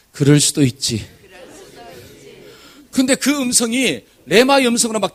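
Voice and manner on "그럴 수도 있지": slow calm model phrase for the congregation; repeat after me. Shown as a demonstration. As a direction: say 그럴 수도 있지 gently, for all to repeat. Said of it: "한번 따라해 봅시다".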